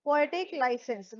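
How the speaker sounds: drawn out, each word laid down; slow and deliberate for the class; slow, stressed term. Shown as a demonstration. Teacher to students, stating the term slowly. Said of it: "क्या कहते हैं इसे?".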